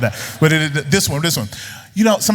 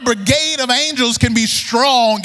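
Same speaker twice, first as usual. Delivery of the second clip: mock Jesus in heaven; 7 semitones higher than usual. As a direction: play Jesus as a frantic boss short on angels, slow. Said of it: "Jesus is up in heaven saying".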